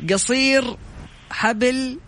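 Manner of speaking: proverb read word by word in reverse, slowly; backwards speech. Shown as a demonstration. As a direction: spell out the scrambled sentence with pauses. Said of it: "مقلوبة ومعكوسة".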